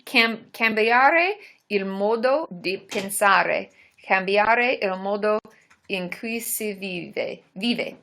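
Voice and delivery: slow, careful Italian accent. Real, not acted. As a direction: read it slowly, going all Italian. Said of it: "you went Italian there".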